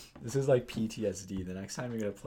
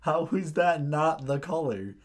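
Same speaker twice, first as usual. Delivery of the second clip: loud, higher, disbelieving; incredulous yell; 6 semitones higher, 10 dB louder than usual. Retold or imitated. Shouting at the kid who doubts the red card, incredulous. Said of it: "I'm like".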